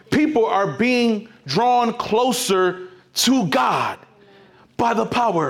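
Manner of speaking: slow, shouted proclamation; preaching shout. Acted. Preacher to his congregation, a slow shouted proclamation. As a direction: call it out slowly to the whole room.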